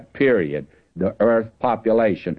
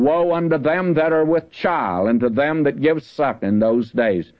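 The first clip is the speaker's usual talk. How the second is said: scripture reading; 3 semitones higher than usual. Acted. Preacher reading the warning to the congregation, solemn. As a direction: lean into the woe as holy writ.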